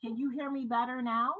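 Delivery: caller's voice echoing, far from the phone; echoing bathroom. Real, not acted. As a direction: sounds like she's calling from a bathroom. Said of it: "you sound like you're in a bathroom".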